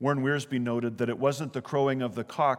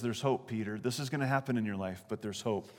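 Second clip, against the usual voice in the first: softer, gentle hope; tender reassurance; 3 semitones lower, 5 dB quieter than usual. Retold or imitated. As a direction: reassure him quietly. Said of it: "So he says".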